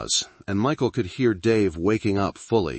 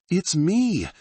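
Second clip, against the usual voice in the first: ghostly woman voice; 12 semitones higher, 3 dB louder than usual. Acted. Dead wife's voice on phone.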